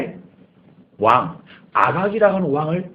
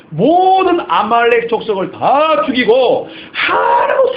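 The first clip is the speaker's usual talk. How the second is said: stern command; 7 semitones higher, 6 dB louder, slower than usual. Acted. God's command voiced.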